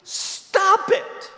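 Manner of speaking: high, slow "Stop it" aimed at the church; comic scolding; mock curt command. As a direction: snap it at the whole room. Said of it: "tell you".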